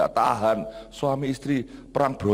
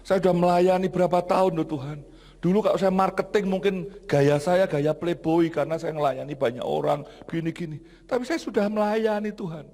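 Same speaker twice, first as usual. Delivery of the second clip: raised-pitch, aggrieved prayer; retold crying plea; 4 semitones higher than usual. Pastor pleading with God to change him, acted wounded plea. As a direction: protest to God as if hurt. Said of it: "Nangis saya".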